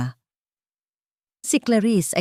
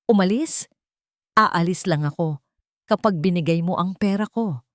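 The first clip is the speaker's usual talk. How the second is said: mild demanding sneer. Acted. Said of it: "sabi ni Miguel".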